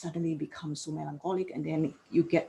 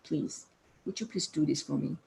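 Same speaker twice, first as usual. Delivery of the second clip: gentle asking; 3 semitones lower than usual. Shown as a demonstration. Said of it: "it's like we asking help".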